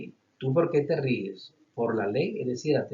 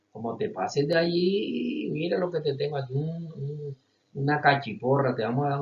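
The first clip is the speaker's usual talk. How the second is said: a higher, mock-menacing warning, then rushed; teacher hamming up a club-wielding cop; enforcer's threat; 3 semitones higher than usual. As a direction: wave the club and warn them off.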